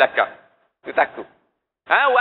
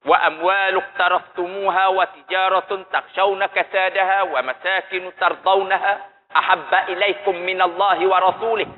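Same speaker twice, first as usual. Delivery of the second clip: Quran recitation; 2 semitones lower, faster than usual. Acted. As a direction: recite the verse as in prayer. Recites Quran verse before explaining.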